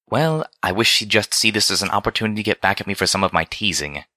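lightly voiced refined Velvet; a touch of a poised lady musing to a friend; Velvet Remedy, teasing friend.

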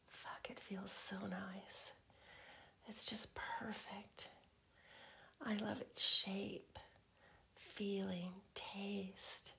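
intimate teasing whisper. Acted.

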